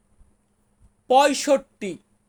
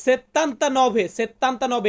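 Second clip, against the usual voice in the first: 1 slow demo; much slower than usual. Shown as a demonstration. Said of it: "ঊনআশিকে আমরা বলবো".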